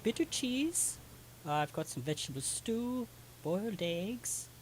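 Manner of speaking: lightly voiced, obliging server; lilting baker offering the menu; baker character. Baker reciting her food to customers, lightly voiced character.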